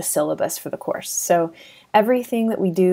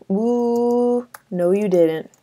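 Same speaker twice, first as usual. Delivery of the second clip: sassy drawn-out "Ooh" then "no you didn't"; 4 semitones higher, much slower than usual. Shown as a demonstration. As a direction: play it like a sassy friend. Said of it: "it sounds like".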